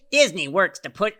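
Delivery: hammed-up pundit voice, pushed hard; Ben Shapiro. YouTuber reading a pundit's tweet, overdone impression. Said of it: "try to read it in his voice".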